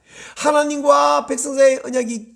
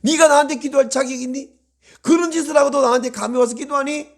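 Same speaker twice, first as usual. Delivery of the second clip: raised, emphatic challenge, quickening; acted rebuke at a higher pitch; God's stern challenge; 4 semitones higher, faster than usual. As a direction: demand to know how they dare. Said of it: "라고 말할 것 같아도".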